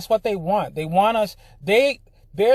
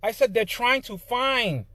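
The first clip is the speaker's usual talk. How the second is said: indignant, much higher-pitched insistence; heated rebuttal; 9 semitones higher than usual. Real, not acted. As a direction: push back hard, voice raised high.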